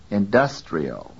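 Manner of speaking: INDUSTRIAL stressed on DUS with full vowel. Shown as a demonstration. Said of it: "pronounced with full quality".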